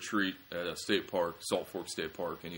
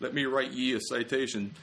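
raised mock-officer voice; old-time officer; 6 semitones higher, 4 dB louder than usual. Comic as an eighteen seventy-five officer writing a citation, mock-official. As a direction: play an old-time cop. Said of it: "This is an eighteen seventy-five officer".

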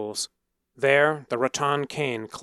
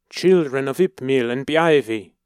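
booming call from the sky, louder; roaring storm voice; 2 semitones higher, 6 dB louder than usual. A narrator's reading. Storm voice roars to the villagers, loud booming call. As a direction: thunder it out like a god in the storm. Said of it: "the voice in the storm roared".

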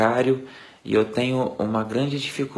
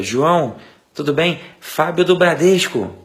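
higher-pitched phone greeting as if to an acquaintance; familiar greeting; 6 semitones higher, 4 dB louder than usual. Shown as a demonstration. Bank clerk phoning a client as if they were acquainted, familiar. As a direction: greet them like you already know each other. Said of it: "eu uso a entonação no final da frase como se a pessoa já me conhecesse".

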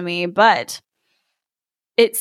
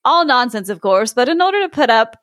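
story narration. A narrator's reading. S0 reads fairy tale aloud.

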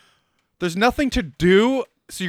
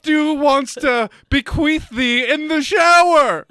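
higher, slow hammed-up fake English accent; stupid English accent; 7 semitones higher, 5 dB louder than usual. Mocking a text to a girl in fake English accent. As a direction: ham up a posh English accent, slowly. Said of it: "you're doing the stupid accent".

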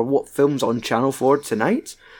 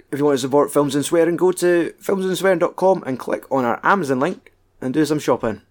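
upbeat sponsor plug; podcast ad read. Acted.

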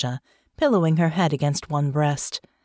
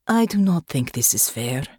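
gentle; 2 semitones lower than usual. A narrator's reading. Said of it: "Natasha said gently".

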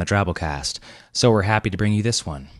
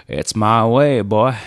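a touch louder, brash and sure of himself; brash car dealer; 3 semitones higher, 5 dB louder, slower than usual. Acted. Car dealer Rivers brushing off his barging in, brash. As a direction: swagger it like a big boss. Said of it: "he said".

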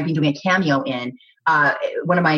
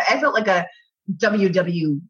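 ordinary talk, nothing marked

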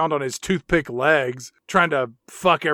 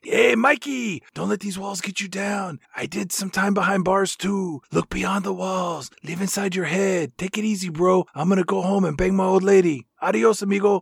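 laid-back stoner janitor, a bit higher; easygoing dude giving advice; 4 semitones higher than usual. Retold or imitated. Janitor cheering up the kid Michael, laid-back and higher. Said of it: "and he's like".

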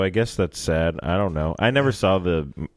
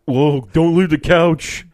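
mock alarmed plea; 8 semitones higher, 7 dB louder, slower than usual. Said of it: "I'm like".

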